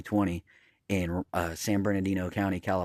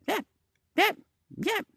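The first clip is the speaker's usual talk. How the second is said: imitating yapping dog. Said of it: "like that".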